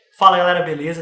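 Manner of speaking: changed, loud, bright presenter voice.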